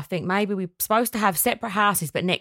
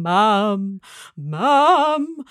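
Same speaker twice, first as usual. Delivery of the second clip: put-on toddler calling out; 2 semitones higher, 4 dB louder than usual. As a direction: call for mum like a little boy at dawn. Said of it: "standing up going".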